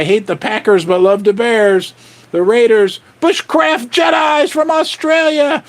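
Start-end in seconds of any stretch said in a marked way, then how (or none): 3.2-5.6 energetic livestream shout-out; excited shout-out. Real, not acted. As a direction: call it out to the chat like a host. Excited live shout-out to viewers.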